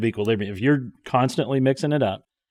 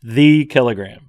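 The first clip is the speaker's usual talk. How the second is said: laughing; 6 dB louder, slower than usual. Real, not acted. Laughs while finishing phrase.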